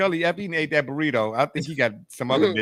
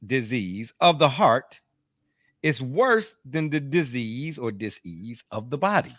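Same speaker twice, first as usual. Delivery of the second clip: reading a quote; 2 semitones lower, slower than usual. Shown as a demonstration. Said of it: "I'll leave you all with this quote".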